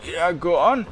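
a hint of a raspy, thinning old voice; raspy shopkeeper voice. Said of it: "It has an unhealthy rasp to it".

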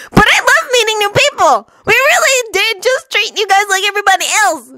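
high, overdone innocent protest; feigned innocence. Acted. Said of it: "Naruto feigned innocence".

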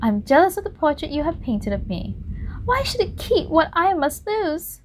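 envy the portrait bitterly; jealous Dorian. Acted. Dorian's tearful complaint.

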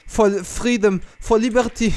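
mock French accent. Claiming a perfect French accent to a friend. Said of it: "I have a perfect French accent".

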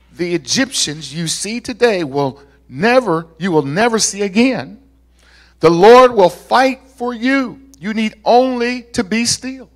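emphatic pulpit reading of Moses's words; scripture reading. Acted. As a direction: proclaim it to the people, building in force. Reads scripture aloud.

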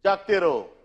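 mock watchman calling out the night round; half-hearted imitation of a night watchman's cry. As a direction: imitate a night guard's drawn-out call. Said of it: "अख्खा रात्र ओरडत असतो".

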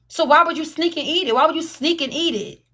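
repeated indignant question; accusing. Real, not acted. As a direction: confront them over the sneaking. Confronting accusation.

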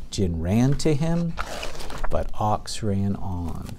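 slow, with a pause at the comma after "him". Shown as a demonstration. Teacher to class, showing a comma pause. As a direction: yield at the comma, then go on. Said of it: "you slow down for a minute".

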